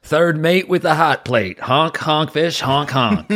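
silly clown. Acted. Character intro catchphrase with honks.

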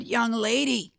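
boss's slow put-down ending in a loud bark; mock stern boss scolding a young employee; dismissive boss. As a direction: lecture her slowly, then hammer the last line. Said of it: "And he said".

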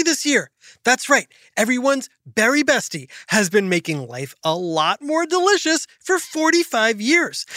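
put-on upbeat, sing-song ad read for kids; sponsor ad read. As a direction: sell the special with a cheerful grin. Reads sponsor ad.

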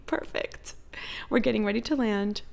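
hushed whisper to herself. Retold or imitated. Tipsy flyer whispering to herself as the plane lands. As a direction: whisper it like a secret pep talk.

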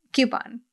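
a lone "Coupon" as KYOO-pon; KYOO-pon pronunciation. Shown as a demonstration. Host trying her own word over, "Coupon" as KYOO-pon. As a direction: test out "Coupon" with a KYOO first syllable. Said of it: "And you say coupon?".

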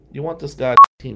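loud, scornful; teen quitting the team in anger; angry shout. Retold or imitated. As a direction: throw it back at him. Telling off team captain.

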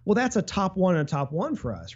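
usual speaking voice

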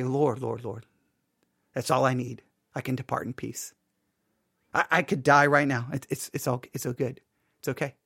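very soft, low, contented prayer; hushed, low, content; hushed peaceful prayer. Retold or imitated. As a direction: breathe it out quietly, at peace. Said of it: "And I didn't say".

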